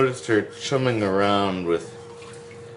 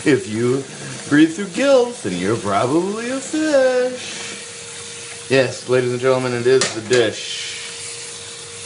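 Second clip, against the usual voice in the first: high, slowed, singsong segment announcer; show jingle intro; 8 semitones higher, slower than usual. Acted.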